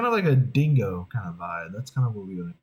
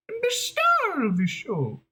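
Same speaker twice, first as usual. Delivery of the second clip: diva boast; slower than usual. Acted. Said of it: "we want to go a little like this".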